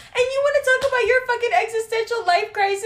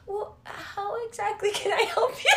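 mock sweet; 2 semitones higher, 5 dB quieter than usual. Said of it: "I was being so sweet".

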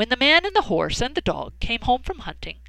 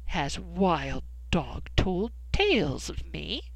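angry cat; 2 semitones lower, 3 dB quieter, slower than usual. Acted. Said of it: "Cat grew very angry and said".

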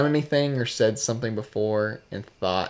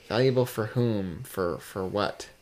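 smug. Real, not acted. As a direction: ask it like you already know better. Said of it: "sound so smug again when you say that".

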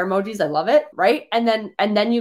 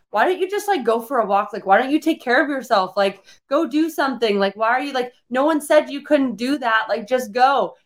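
a hint of a high, mocking husband voice; imitating the husband; 4 semitones higher than usual. Husband telling his ranting wife to take care of herself, lightly mocked. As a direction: lightly send up his easy advice. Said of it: "your husband or whoever is like".

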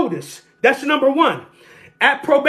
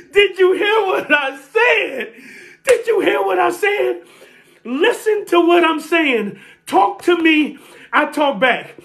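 raised preaching call; preacher's call; 4 semitones higher than usual. Real, not acted. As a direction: demand they listen, higher. Preacher demands the congregation listen.

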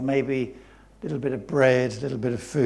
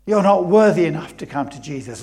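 loud, raised accusation; accusing enemy; 7 dB louder, faster than usual. Acted. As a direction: hammer home that they are unworthy. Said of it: "biggest lies the enemy will try".

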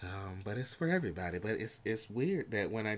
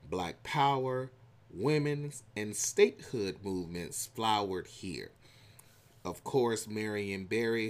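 reading aloud. Acted. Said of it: "y'all heard all my country accent".

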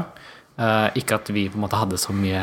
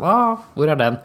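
higher mock-eager "ooh"; retold audience plea; 6 semitones higher, 4 dB louder than usual. Singer retelling fans wanting the song, mock-eager. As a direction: imitate a fan asking for the hit. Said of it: "så ble det litt sånn".

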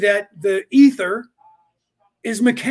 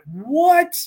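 stunned what; 8 semitones higher, 6 dB louder than usual. Retold or imitated. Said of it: "and he went".

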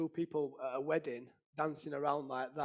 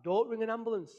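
higher-pitched, half-shouted urgent plea; mildly raised voice, urgently stopping them; raised-voice retelling; 5 semitones higher than usual. Retold or imitated. Husband retelling shouting to wife about the ambulance, mildly shouted. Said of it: "and I shouted out".

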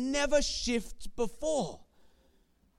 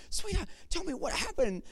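coaxing dad; 5 semitones higher, faster than usual. Retold or imitated. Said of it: "I'm saying".

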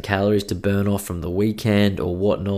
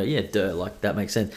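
quieter, offhand imitation of a know-it-all; mock dismissive; 5 dB quieter than usual. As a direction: toss it off like it's obvious. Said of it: "people might go".

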